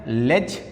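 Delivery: "लेज" said as a separate syllable; syllable pronounced alone. Shown as a demonstration. Teacher breaks acknowledgement into syllables, isolated syllable "लेज". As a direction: sound out "लेज" on its own. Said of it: "हमने उच्चारण क्या किया".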